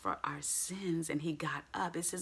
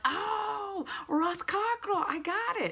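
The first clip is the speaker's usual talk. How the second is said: much higher, bright aha voice; mock listener realizing; 14 semitones higher, slower than usual. Congregant suddenly understanding, high pitched. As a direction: play the listener suddenly getting it. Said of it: "you're gonna be like".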